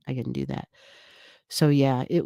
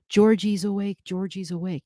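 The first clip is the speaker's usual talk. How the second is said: mild mock yell, raised at first then dropping; retold excited yelling; 4 semitones higher than usual. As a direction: imitate mom announcing great news to the house. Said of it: "she's just yelling".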